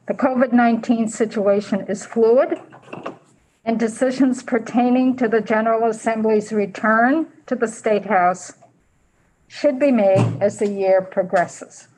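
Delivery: muffled, speaking behind a mask; strained talking through a mask; through a face mask. Real, not acted. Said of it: "Hard to talk with a mask".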